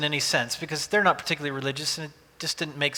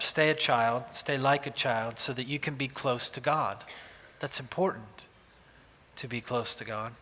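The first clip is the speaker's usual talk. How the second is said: understated lament, growing lower and softer; mildly mournful retelling of a plea; imagined lament; 4 semitones lower, 4 dB quieter than usual. Retold or imitated. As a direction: quietly lament on the father-in-law's behalf, sinking by the end. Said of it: "a lament. That's how it felt to me".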